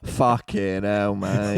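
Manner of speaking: slow, drawn-out stunned curse; imitating a stunned doctor; mock doctor shock. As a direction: let it land slowly.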